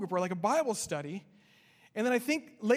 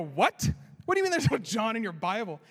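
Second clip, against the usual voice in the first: surprised; 4 dB louder than usual. Retold or imitated. Pastor startled by the claim.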